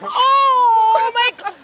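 shaken and crying out. Real, not acted. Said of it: "I'm so scared".

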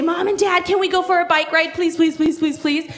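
put-on eager child begging, in a rapid run; excited pleading. Girl begs parents for a bike ride, excited pleading. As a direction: voice a child pestering with quick pleases. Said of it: "she was so excited".

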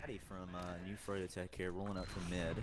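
YouTube tutorial host. Pretend. Mock tutorial video intro.

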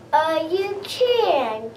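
sly, slow doubting wolf; lightly voiced sly wolf. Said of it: "said the wolf".

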